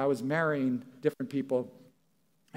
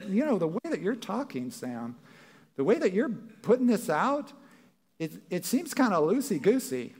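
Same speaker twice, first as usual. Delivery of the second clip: higher, mock worried objector; objecting listener; 5 semitones higher than usual. Congregant objecting to Sam, lightly mock worried and higher. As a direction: voice the skeptic's complaint. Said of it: "some of you are sitting there saying".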